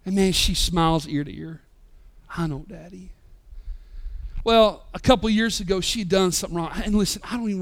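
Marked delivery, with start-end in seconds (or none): 2.4-3.1 little daughter voice. Retold or imitated. Daughter's reply voiced by dad.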